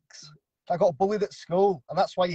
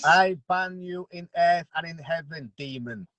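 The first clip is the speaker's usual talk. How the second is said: mock exorcism; 4 semitones lower, slower than usual. Mock exorcism chant at rival.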